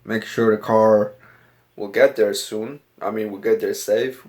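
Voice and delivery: put-on a home-made Southern accent, not quite landing. Vlogger to his camera, in a shaky put-on Southern accent. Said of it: "going for a southern accent".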